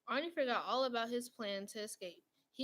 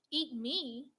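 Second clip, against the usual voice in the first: high, louder shocked shriek; 3 semitones higher, 5 dB louder than usual. A narrator's reading. Arnie shrieking at Mister Bing, horrified. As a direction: yelp it in disbelief. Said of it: "Arnie shrieked".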